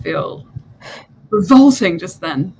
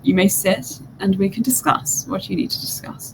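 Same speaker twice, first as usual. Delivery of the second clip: soft whisper; 6 dB quieter than usual. Acted. Diviner inviting the player to sit, whispered. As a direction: hush it, soft and breathy.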